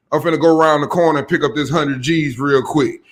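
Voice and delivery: voiced hustler quote. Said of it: "a nigga sitting up saying".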